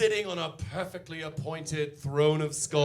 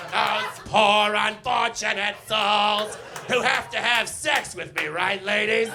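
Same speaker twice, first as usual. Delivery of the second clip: brassy sea witch; 4 dB louder than usual. Acted. Ursula speaking.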